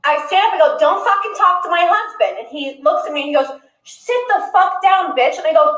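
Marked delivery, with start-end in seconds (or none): 0.8-2.4 retold angry warning, pitched up; angry confrontation. Wife warning a player off her husband, angry. 3.8-5.3 higher, slow, emphatic insult; retold angry command. Player ordering a courtside fan to sit, angry.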